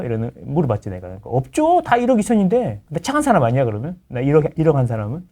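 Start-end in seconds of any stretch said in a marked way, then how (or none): 1.3-2.8 lightly voiced agent, higher pitch; imitated estate agent. Realtor answering landlord's call, lightly imitated in higher pitch. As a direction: answer as a matter-of-course agent. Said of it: "부동산에 전화해봤죠".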